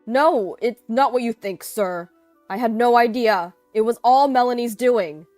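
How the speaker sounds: loud, high, pleading denial; desperate explaining. A narrator's reading. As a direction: frantically shift the blame to save yourself. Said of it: "Ethan desperately tried to explain".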